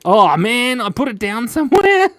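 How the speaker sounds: playful high voice for the mix-up; imitating a dismayed Derek. Derek voiced in an imagined scene.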